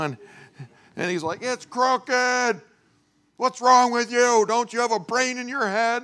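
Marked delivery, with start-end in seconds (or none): 1.4-6.0 high, loud mock scolding; high-pitched angry father impression; imitated screaming father. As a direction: imitate an exasperated dad yelling at his boy. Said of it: "And he's screaming at me".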